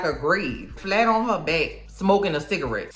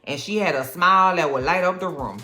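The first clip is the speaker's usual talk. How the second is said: retold sweet-talk; 4 semitones lower than usual. Chief flattering Sophia about her mama, mock sweet-talk. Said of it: "trying to get into her good graces".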